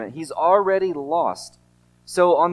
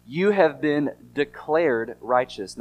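declared said slowly with weight; stress on declared; slower than usual. Shown as a demonstration. Preacher stressing to his congregation that they are declared righteous. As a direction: lean on the word declared and slow the line. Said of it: "I emphasize the word declared".

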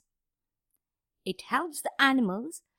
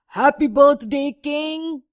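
cheerful greeting; 4 semitones higher, 10 dB louder than usual. Acted. Rats greet the king.

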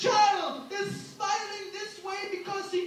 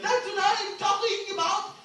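Bill Cosby angry; 2 semitones higher, slower than usual. Retold or imitated. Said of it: "Bill got pissed".

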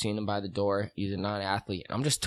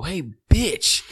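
high, loud yell out the car window; shouted insult; 7 semitones higher, 6 dB louder than usual. Retold or imitated. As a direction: bark it at the stranger, loud and high. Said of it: "and I just go".

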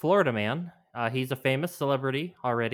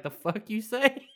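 Mike Tyson impression; 10 semitones higher than usual. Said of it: "He'd been like".

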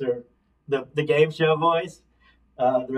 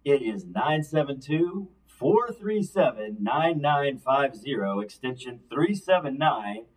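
announcer voice. Shown as a demonstration. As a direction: read it like a radio commercial. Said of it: "I also made sure I had my announcer voice".

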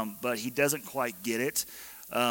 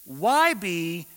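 clueless husband; 4 semitones higher, 4 dB louder, slower than usual. Retold or imitated. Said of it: "Then he continues".

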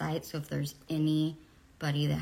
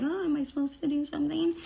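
put-on naive young girl; 10 semitones higher, faster than usual. Imitating naive eighteen-year-old self.

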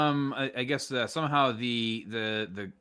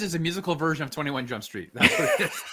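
laughing; 8 semitones higher than usual. Real, not acted. Joking comparison, laughing through it.

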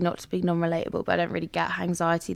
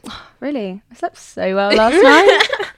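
mock smug; 4 semitones higher, 8 dB louder than usual. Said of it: "I go".

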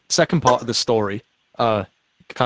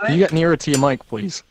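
repeated more clearly; 2 semitones higher than usual. Real, not acted. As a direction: say it again so they hear you this time. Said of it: "I'm sorry? What?".

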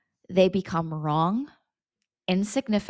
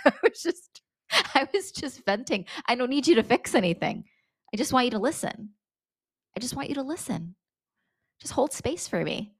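exasperated plea; 5 semitones higher than usual. Shown as a demonstration. Acted reply to fixer.

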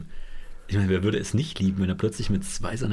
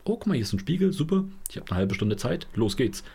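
excited; 4 semitones higher than usual. Retold or imitated. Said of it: "das ist dann".

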